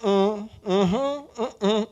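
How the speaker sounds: lazy noncommittal uhum, mimicking the silent one; mock mumbled uhum. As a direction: hum along like someone who won't talk. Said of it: "O mudinho fica".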